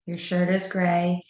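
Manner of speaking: calm, level, matter-of-fact statements; even tone. Shown as a demonstration. Director shows teachers how to talk to a child, even and calm. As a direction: state it like a plain fact, no scolding. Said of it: "So I have an even tone".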